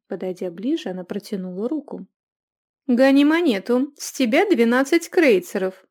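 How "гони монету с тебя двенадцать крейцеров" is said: loud gritted-teeth demand; through gritted teeth. A narrator's reading. Innkeeper demanding payment through gritted teeth. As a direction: spit it out at him, louder. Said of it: "процедила она сквозь зубы".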